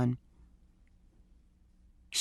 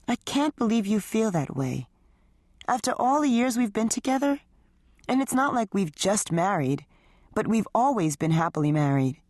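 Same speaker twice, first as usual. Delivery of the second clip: a hint of a higher, hurt wife defending herself; lightly voiced wife; 5 semitones higher than usual. Wife answering husband's accusation, higher hurt voice. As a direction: plead your case, a little raised.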